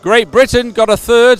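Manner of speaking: measured, emphatic results read; results announcement. Real, not acted. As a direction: announce each placing clearly to the crowd. Reads out race results.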